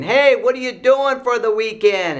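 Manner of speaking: high, loud mock kid's yell; very noisy voice. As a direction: holler it to someone tables away. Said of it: "in a very noisy voice".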